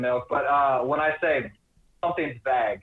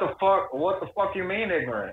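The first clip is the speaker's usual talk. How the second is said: higher, put-on southern accent; 5 semitones higher than usual. Showing how they talk about ignorant things, mock southern accent. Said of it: "we somehow switch to a southern accent".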